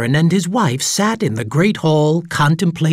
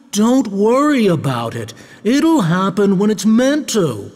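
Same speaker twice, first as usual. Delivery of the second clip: mild reassuring baron, higher voice; calm reassurance; 7 semitones higher than usual. A narrator's reading. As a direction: reassure your wife calmly. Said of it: "the Baron said calmly".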